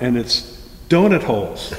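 words with a laugh in them. Real, not acted. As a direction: say it while starting to laugh. Laughing through the story.

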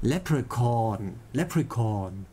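Leprechaun, final syllable held long; lengthened ending. Shown as a demonstration. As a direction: rehearse Leprechaun, stretching chaun at the end. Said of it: "der sagt das Ende länger".

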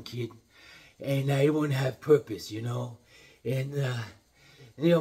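put-on an old trainer talking gently to his fighter; lightly voiced old trainer, heartfelt; Mickey, fond talk. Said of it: "We'll do a little Mickey".

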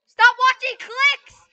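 high, loud and very slow yell; mock-stern shout at Connor to quit watching videos; drawn-out shout. Real, not acted. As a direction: drag every word out at him. Yelling at Connor over voice chat.

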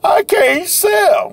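high, slow whiny moan; mock whine. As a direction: drag it out like a self-pitying seller. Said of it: "we can't dwell on".

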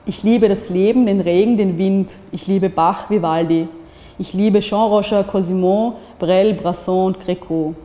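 fervent reading of a love list; reading aloud. Acted. Reading a woman's letter aloud, fervent. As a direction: lean into each Ich liebe. Reads a loving confession aloud.

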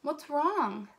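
mild, kind concern; kindly concern. Acted. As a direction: ask kindly, as a best friend. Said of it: "said kindly".

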